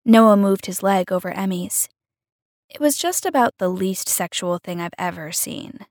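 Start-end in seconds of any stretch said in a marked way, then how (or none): none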